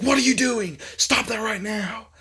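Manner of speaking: high, loud commanding yell; angry robot shout. Retold or imitated. AI guardian yelling at the dreamer to stop. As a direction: bark it out like a guard AI catching an intruder. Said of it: "And it's like".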